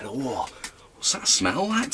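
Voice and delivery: high-pitched retold question; mock high voice. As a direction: pitch it way up like a curious kid. Kid asking mum about smell.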